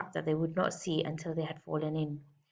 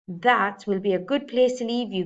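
growling bear; 2 semitones higher, 5 dB louder than usual. Acted. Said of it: "growled Bear".

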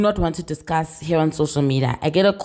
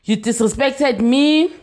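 mock angry; 4 semitones higher, slower than usual. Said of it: "the voice note and the anger again".

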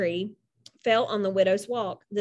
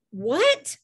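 higher, baffled "what"; baffled question; 7 semitones higher, 3 dB louder than usual. A narrator's reading. Custodian baffled by a whispered answer, surprised. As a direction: ask in puzzled surprise.

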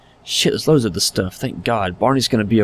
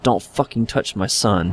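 slow, soft seething warning; quiet menace; 3 dB quieter, slower than usual. Acted. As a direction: grind it out slowly and quietly. Repeated threat.

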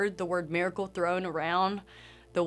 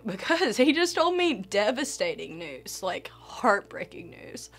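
fading from a plea into a breathy whisper; tearful whisper; 2 semitones higher than usual. Retold or imitated. Telling the doctor why she's crying, tearful whisper. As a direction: whisper it as if still choked up from crying.

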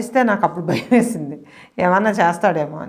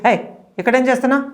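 startled shout; 6 semitones higher, faster than usual. Retold or imitated. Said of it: "అన్నాను నేను".

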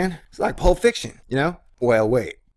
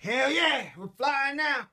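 much higher excited cartoon voice; high goofy voice; 12 semitones higher, 6 dB quieter, slower than usual. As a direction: squeal it out like a cartoon. Goofy hype voice.

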